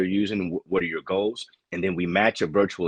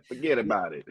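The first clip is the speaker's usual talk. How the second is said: a hint of a joking New York accent. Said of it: "try New York accent".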